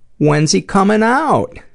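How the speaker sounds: put-on high, very loud, shrill, carrying child's voice. Retelling a story, the speaker quotes a man's kid asking again: very loudly. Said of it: "very loudly".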